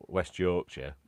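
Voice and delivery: put-on Yorkshire accent, loud first word. Not actually from here, mock Yorkshire accent. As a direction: punch the town name in Yorkshire. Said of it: "Yorkshire accent".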